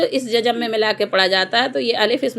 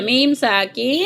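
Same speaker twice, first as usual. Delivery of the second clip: slow demo; slower than usual. Shown as a demonstration. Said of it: "थोड़ा तेज बोलो".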